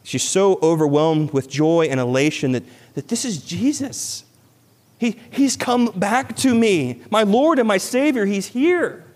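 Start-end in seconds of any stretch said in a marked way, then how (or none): 2.9-9.0 much higher, breathless with joy; Mary reunited with Jesus, high and overjoyed. Acted. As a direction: voice Mary overwhelmed at seeing him. Voicing Mary's overwhelmed joy.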